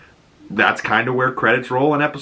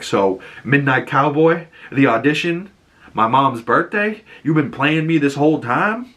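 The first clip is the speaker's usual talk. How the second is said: hurt accusation; 6 semitones higher than usual. Retold or imitated. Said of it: "he's really hurt".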